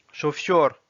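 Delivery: "Chauffeur" as Russian "shofyor"; Russian pronunciation. Shown as a demonstration. Teacher reading words with learners, "Chauffeur" in Russian. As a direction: read "Chauffeur" in Russian, rolled R. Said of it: "s'entraîner à lire les mots".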